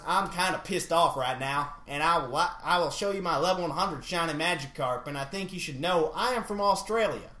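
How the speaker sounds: shaky attempt at a southern accent. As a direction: read it with a put-on southern twang. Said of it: "do this in a southern accent".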